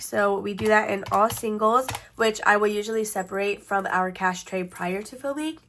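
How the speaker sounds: blocked nose, stuffy voice; congested. Real, not acted. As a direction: talk through a congested nose. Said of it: "My voice sounds like I'm really, really congested".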